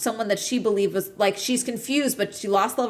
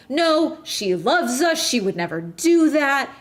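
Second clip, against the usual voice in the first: mock insistent Sandy; 5 semitones higher, 3 dB louder than usual. Sandy vouching for Caroline to Robert.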